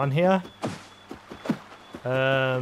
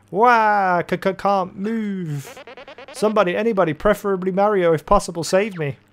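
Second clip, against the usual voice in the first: higher-pitched cry for help, lightly hammed up; trapped Luigi pleading; 5 semitones higher than usual. Trapped Luigi begs for someone to save him, hammed-up pleading. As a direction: mock-desperate plea from a stuck character.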